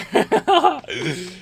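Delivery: short high giggle; high amused laugh. Real, not acted. Laughing at old clip.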